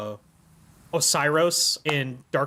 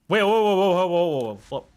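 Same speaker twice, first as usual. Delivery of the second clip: sudden loud surprise; startled whoa; 3 semitones higher, 4 dB louder than usual. Real, not acted. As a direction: jolt back in alarm.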